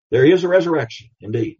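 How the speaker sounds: fast, firm proclamation; emphatic proclamation. Real, not acted. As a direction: punch it out as certain.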